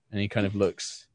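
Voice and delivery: ordinary talk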